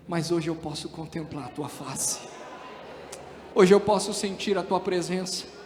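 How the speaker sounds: low, hushed confession to God; Job's declaration. Acted. Preacher voices Job finally understanding his trial, hushed declaration. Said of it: "o próprio Jó vai declarar".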